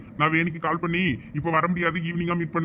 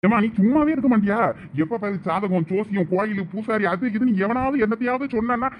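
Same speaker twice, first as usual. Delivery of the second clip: higher-pitched, fed-up complaint; exasperated outburst; 4 semitones higher than usual. Acted. Son fed up with mother's astrology talk, exasperated. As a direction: protest at being nagged, pitch climbing.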